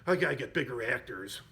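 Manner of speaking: mildly exasperated retold groan of a line; eye-rolling exasperation. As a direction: mimic a mild eye-roll with the voice. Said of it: "rolls his eyes like".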